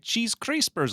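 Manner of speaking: put-on high, forced Hispanic accent; thick Hispanic accent. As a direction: imitate her over-emphasized Hispanic accent. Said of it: "she would always say it ... like a really thick".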